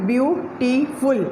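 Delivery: slow, broken into syllables. Shown as a demonstration. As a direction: split the word into its syllables slowly. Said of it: "अदा करते हुए सांस रुके".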